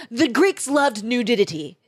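mock a pretentious art guy, drawn out; imitated highfalutin declaration; mocking imitation. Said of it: "He's like".

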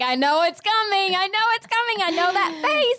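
high-pitched, whiny mock exasperation; knowing mock wail. Retelling to partner in bed, high knowing wail. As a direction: wail it high, as if you saw it coming. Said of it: "and I'm like".

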